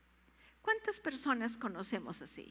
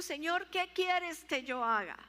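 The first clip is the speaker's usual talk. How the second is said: higher, louder surrender; earnest plea; 6 semitones higher, 5 dB louder than usual. Acted. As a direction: Saul yields to the Lord. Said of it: "Saulo le está diciendo". (súplica sincera, más aguda)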